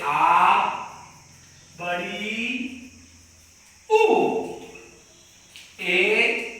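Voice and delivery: आ, ए, ओ, औ held long with pauses; long vowel demo. Shown as a demonstration. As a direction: stretch each long vowel. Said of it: "जैसे". (दीर्घ स्वरों को खींचकर बोलना)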